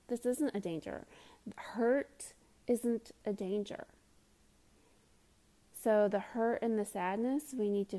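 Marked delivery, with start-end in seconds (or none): 0.1-3.9 a gentle hushed reassurance to the listener; reassuring whisper. Real, not acted. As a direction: whisper it gently so they believe it. Reassuring that hurt isn't danger.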